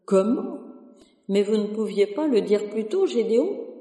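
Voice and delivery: a harried curé scolding the sacristan, rushing him off; flustered priest. Acted. Curé scolds the sacristan about the burnt cross, rising to frantic panic.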